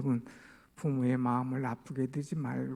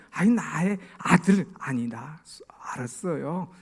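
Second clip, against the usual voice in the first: usual speaking voice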